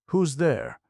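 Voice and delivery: high, loud challenge through a door; shrill belligerent call. Acted. Aunt challenging a knock at night, shrill and belligerent. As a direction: call out sharply, high and loud, daring whoever's there. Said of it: "she called out in shrill, belligerent tones".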